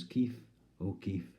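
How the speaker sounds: "Keith" said "Keef", rhyming with O'Keefe; impaired speech. Acted. Poet giving Keith's full name his way, impaired "Keef". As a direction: turn th in "Keith" into f. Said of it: "to him he was".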